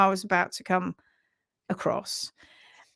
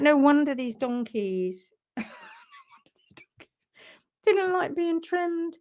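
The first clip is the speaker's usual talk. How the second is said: laughing disbelief; 7 semitones higher than usual. Retold or imitated. Incredulous reply, laughing.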